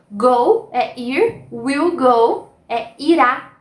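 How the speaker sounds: ordinary talk, nothing marked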